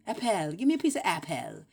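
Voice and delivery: "apple" exaggerated as ap-PELL; mock spelling pronunciation. Mocking how nobody talks, "apple" as ap-PELL. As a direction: ask with "apple" pronounced AP-ELL. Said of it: "they don't talk like that".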